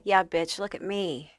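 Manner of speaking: understated bitchy undertone; sassy hater aside. Acted. Reader voicing the hater behind the mask, understated sass. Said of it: "And this is like".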